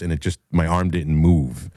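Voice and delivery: ordinary talk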